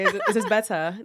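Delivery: put-on trying an English accent; posh English lilt. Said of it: "we will talk in the English accent".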